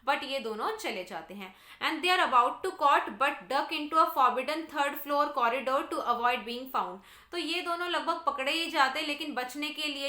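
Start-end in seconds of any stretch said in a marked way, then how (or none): 1.8-7.0 slow, deliberate textbook read-aloud; measured classroom reading. Real, not acted. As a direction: read it out slowly for a class, word by word. Reads the English text aloud.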